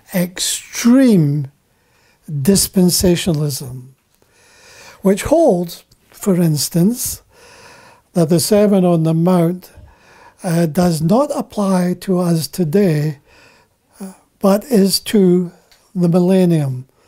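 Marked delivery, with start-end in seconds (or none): 0.1-1.5 heavy emphasis leaning hard on the word extreme. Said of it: "I want to emphasize the word".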